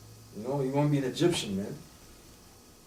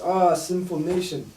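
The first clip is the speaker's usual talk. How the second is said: slow, drawn-out "Ah, sinful nation" with weight on "Ah"; dramatic exclamation; slower than usual. Shown as a demonstration. Reading scripture aloud to friends, slow and mournful. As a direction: stretch out "Ah" and let it fall, like a lament. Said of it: "that's when you gotta go like this".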